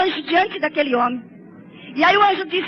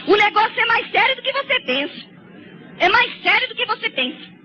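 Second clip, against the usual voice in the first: preaching; 5 semitones higher than usual. Real, not acted. Preaching warning.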